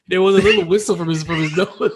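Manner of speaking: laughing while telling it; giggling through the words. Real, not acted.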